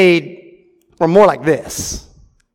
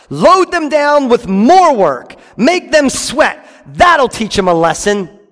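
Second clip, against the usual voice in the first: Pharaoh's order; 5 semitones higher, slower than usual. Acted. Pharaoh ordering his slave drivers, slow harsh command. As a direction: bark it out like a cruel king.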